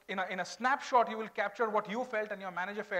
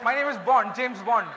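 suave spy voice, louder; James Bond impression; 9 dB louder than usual. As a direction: play the smooth spy.

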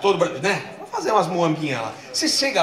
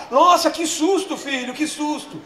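hammed fake fright; 8 semitones higher, slower than usual. Husband faking a fright.

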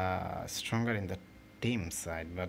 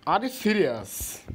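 loud, much higher disbelieving shout; outraged disbelief; 12 semitones higher, 9 dB louder than usual. Real, not acted. Gamer shocked by the game's call, loud outraged shout. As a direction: yell at the screen in disbelief.

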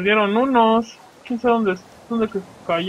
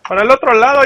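yelling direction; 5 semitones higher, 9 dB louder, much faster than usual. Real, not acted. Shouting at a mob.

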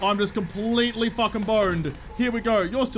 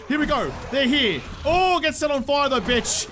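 higher and louder battle cry; excited shout; 5 semitones higher, 3 dB louder than usual. Real, not acted. Streamer greeting the arriving horde, excited shout. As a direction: fire him up as the zombies arrive.

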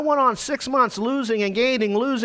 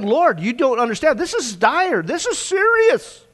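pleading, rising high and louder to a slow cry on serious; desperate plea; 4 semitones higher, 4 dB louder than usual. Retold or imitated. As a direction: beg God, building to a drawn-out high cry. Desperate prayer to God, retold.

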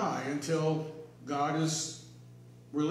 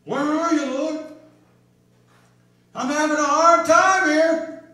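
lightly voiced plea to God, louder; pleading believer; 7 semitones higher, 11 dB louder than usual. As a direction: call out to God in mild distress. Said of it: "We say".

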